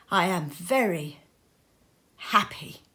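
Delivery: a grieving father's voice breaking on a whisper; trying to sound happy while crying; tearful. A narrator's reading. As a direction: barely get the last word out through tears. Bob grieving, trying to smile.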